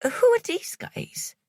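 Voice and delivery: sharp Irish challenge to the strangers; high Irish boyfriend, wary; Irish accent. A narrator's reading. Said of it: "He had an Irish accent".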